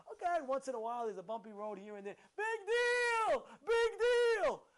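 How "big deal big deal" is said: high, loud dismissive outburst; scornful shout. Real, not acted. Preacher dismissing complaints about a bumpy road, scornful shout. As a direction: shout it down as a trifle.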